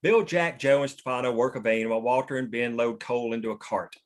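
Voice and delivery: ordinary talk, nothing marked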